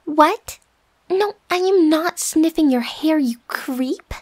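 caught-out, indignant denial. Acted. Roommate accused of sniffing hair, indignant. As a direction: protest it a bit too firmly.

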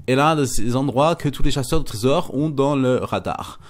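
hammed-up reading with a hint of German accent; amateur German-accent impersonation, punchy delivery. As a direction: play the German announcer, accent put on. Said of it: "je fais l'accent allemand".

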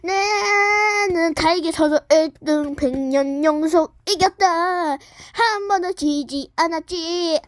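proud bragging character voice, drawn out; boastful champion. Acted. Character boasting to the others about always winning first place. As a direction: brag like an unbeaten champion.

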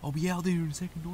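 lightly voiced creature. Creature voice answering.

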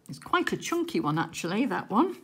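talking round a sweet; chewing while speaking; mouth full. Real, not acted. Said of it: "I'm sort of talking with my mouth a little bit full".

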